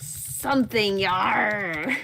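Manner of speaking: lightly voiced pirate growl. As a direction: toss off a playful pirate yar. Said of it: "with a pirate voice".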